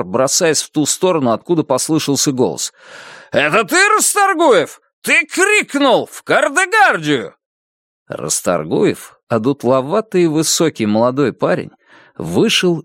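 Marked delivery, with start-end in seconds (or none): 3.3-7.4 high, slow screaming officer; shrieking furious major. A narrator's reading. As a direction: shriek the accusations down the line. Major sends prisoner off.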